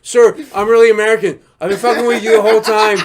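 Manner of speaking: tag. Pretend. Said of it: "I'm like".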